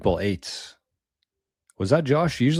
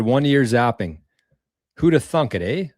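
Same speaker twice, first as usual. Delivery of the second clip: put-on Canadian accent; 3 semitones higher than usual. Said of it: "Wow, you sound like a Canadian".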